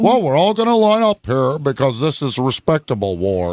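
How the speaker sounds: prim, proper redcoat voice mocking war manners; mock British soldier. Podcaster mocking redcoats, prim, proper mock voice. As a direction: lightly sneer it like a stiff officer.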